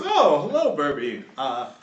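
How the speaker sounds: put-on timid old official, stammering; bullied old governor. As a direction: hesitate like an old man fearing for his lunch money. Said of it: "He always sounds like someone's trying to take his lunch money".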